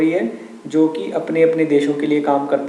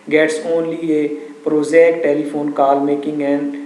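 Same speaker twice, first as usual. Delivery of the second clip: slow, measured textbook reading; story read-aloud; much slower than usual. A narrator's reading. Teacher reading the story to students, slow measured read-aloud. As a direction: read out slowly, phrase by phrase.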